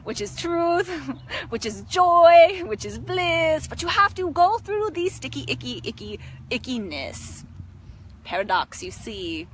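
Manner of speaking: put-on playful spiritual teacher with an Indian accent; Indian guru accent. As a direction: savour each word as an Indian-accented guru. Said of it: "It is like my Indian guru side".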